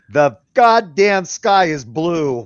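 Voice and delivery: put-on slow, loud, over-explaining like to small kids; mock kindergarten teacher. Mocking the video like a kindergarten teacher, slow and loud. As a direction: spell out the obvious like a teacher.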